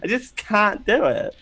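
self-mocking bad valley girl; bad valley girl accent. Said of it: "look at my accent. It's so bad".

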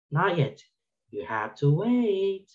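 "Not yet. You have to wait" lightly sung, rising, slow; a lightly voiced toddler's sing-song, slowed; little sing-song voice. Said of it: "in her little sing-song voice".

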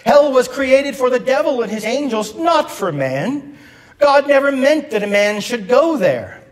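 emphatic imitated pulpit delivery; Billy Graham. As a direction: preach it as a quote, pitch lifted. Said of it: "The Reverend Doctor Billy Graham once said this".

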